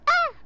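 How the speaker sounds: short put-on "ah" cry; comic little yelp; mimicked yelp. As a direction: imitate a character yelping under fire. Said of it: "that's how he sounds like".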